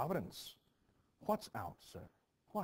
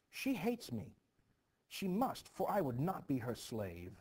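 indignant outburst; 4 semitones higher, 3 dB louder than usual. Acted. Girl accusing Goody Proctor.

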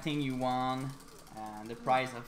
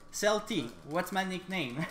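calling out; 5 semitones higher than usual. Real, not acted. Calling out to a viewer.

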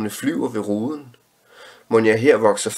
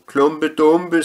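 much higher, louder cry of "Klumpe Dumpe"; children shouting; 8 semitones higher, 4 dB louder than usual. A narrator's reading. Other children shouting their choice of story, high and loud. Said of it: "skreg andre".

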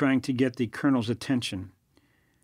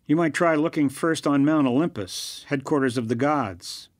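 biting sarcastic suggestion; mock him with a sneer in the voice; caustic; 2 semitones higher than usual. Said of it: "suggested Victor caustically".

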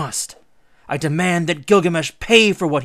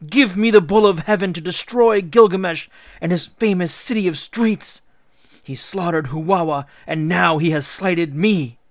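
high, loud indignant ranting; outraged tantrum; 6 semitones higher, 8 dB louder than usual. A narrator's reading. Ishtar demanding revenge from her father, outraged. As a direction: spit out each insult, building in outrage.

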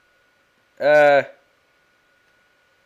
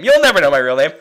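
teasing loud; 2 semitones lower, 8 dB louder, faster than usual. Acted.

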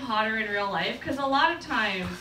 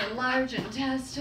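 lightly sultry answer; mock sexy voice. Woman answering what she is eating, mock sexy. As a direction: try to make anatomy sound seductive. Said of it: "hard to say that in a sexy voice".

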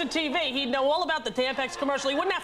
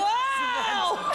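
surprised shout; 10 semitones higher than usual. Real, not acted. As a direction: blurt out your shock.

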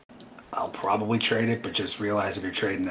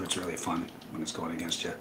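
sarcastic; 6 dB quieter than usual. Real, not acted. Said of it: "being sarcastic".

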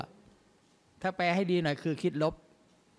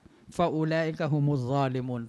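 Quranic recitation. Real, not acted.

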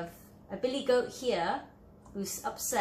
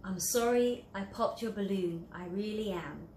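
sincere apology. Acted. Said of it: "that's a lovely, sincere apology".

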